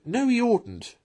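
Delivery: high, loud cut-in shout; sharp loud interruption. A narrator's reading. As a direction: shout him down, mouth full. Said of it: "shouted the Mole".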